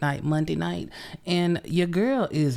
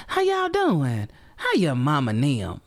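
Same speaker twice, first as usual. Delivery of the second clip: singsong greeting. Real, not acted. Warm singsong greeting to listeners.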